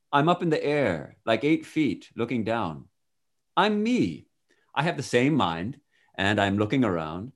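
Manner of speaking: measured, expressive first-person storytelling; testimony read aloud. Acted. Reader shares a man's near-death account with listener, expressive reading. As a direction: read it out as a vivid account, phrase by phrase.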